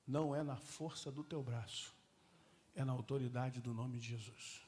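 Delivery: low, slow, calm divine voice; voice of the Spirit. Acted. The Holy Spirit correcting the pastor, low and slow. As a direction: speak gently from above.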